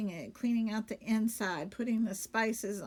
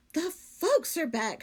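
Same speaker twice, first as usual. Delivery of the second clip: cheerful maid voice; 6 semitones higher, 4 dB louder than usual. Acted. Amelia Bedelia character voice.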